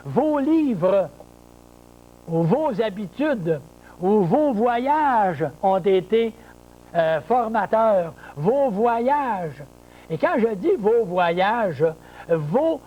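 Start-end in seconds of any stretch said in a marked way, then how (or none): 0.1-8.1 «vos» stressed, slow. Shown as a demonstration. Teacher stressing «vos» for the class. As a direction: lean on each «vos». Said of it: "Si je dis".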